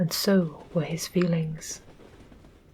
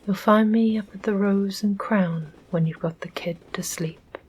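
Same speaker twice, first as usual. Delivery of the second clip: calling out. Acted. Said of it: "he called to her from the bridge".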